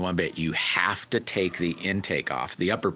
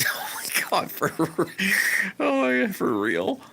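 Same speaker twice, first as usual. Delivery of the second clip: astonished; 13 semitones higher than usual. Real, not acted. Laughing disbelief at a chat comment.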